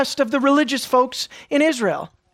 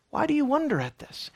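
higher pitched, a touch incredulous; higher questioning reading; 5 semitones higher, 7 dB quieter than usual. Shown as a demonstration. Preacher tries another reading of Peter's question, higher. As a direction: lift the question up, as if baffled by them. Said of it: "Imagine the scene".

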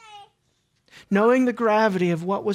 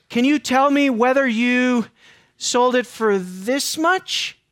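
Peter offering a chance; 3 semitones higher, 3 dB louder, slower than usual. Retold or imitated. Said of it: "Peter giving her a chance to repent".

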